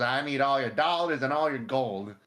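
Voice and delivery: cowboy outlaw voice. Acted. Playing outlaw in showdown.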